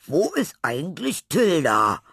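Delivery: calling out. A narrator's reading. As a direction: call it across the playground. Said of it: "rief Laurenz aus".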